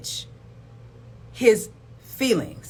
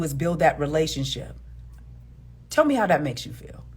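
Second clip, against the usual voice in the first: gentle empathy; 4 semitones lower than usual. Shown as a demonstration. Model empathetic response continued.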